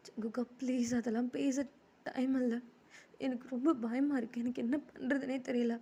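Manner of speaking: mildly anxious pleading; understated frightened voice; acted fear. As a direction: plead with a touch of panic. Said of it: "அதுக்கு என்ன இப்படி பயப்படுற".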